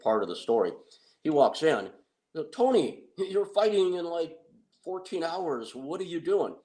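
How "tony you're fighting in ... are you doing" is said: incredulous call. Retold or imitated. Friends confront Tony at 3 AM.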